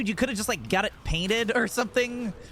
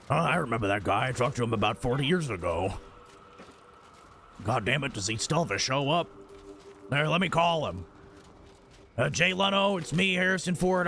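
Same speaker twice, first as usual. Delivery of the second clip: depressed Harrison Ford. Retold or imitated. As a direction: drag every word like a bored old man. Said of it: "your Harrison Ford is depressed".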